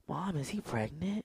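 put-on high, slow little-kid voice; mock little kid. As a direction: ask it like a naive small child. Retelling a childhood question.

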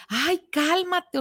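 mock a condescending bystander; dismissive calm down. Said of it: "que te digan".

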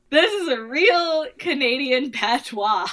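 mock a rapper. Podcaster playing a rapper defending his accent, slow mock boast. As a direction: draw it out as a joking rapper's claim. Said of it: "if he was like".

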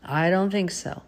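mildly sanctimonious doubt; lightly mock someone judging another's apology; judgmental. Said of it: "to judgmentally say".

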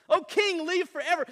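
loud, high 'O king'; loud royal salute. Acted. Daniel hails the king from the den, loud and high. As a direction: hail the king with full honor.

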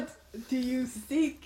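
slow, booming voice with reverb; dopey cartoon bellow. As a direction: intone it slowly like an echoing spirit. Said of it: "Voice with reverb".

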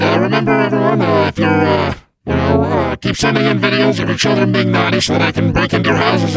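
Krampus voice. Acted. Krampus signing off.

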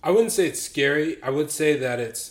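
talking with gum in mouth; chewing gum while talking; mouth full. Real, not acted. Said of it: "I have gum in my mouth".

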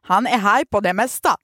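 Skåne-murteella luettu lause; skånska ääntäen, leveästi; skone accent. Shown as a demonstration. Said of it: "mä luen sen niin kuin mä lukisin sen skoneksi".

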